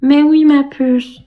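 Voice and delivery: slow, drawn-out sugary mimicry; lightly voiced sugary imitation; slow mimic of Steph. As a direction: stretch it like a cooing caricature. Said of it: "C'est à cause de Steph que je parle comme ça".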